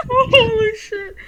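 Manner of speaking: laughing. Real, not acted. Reacting to funny answer.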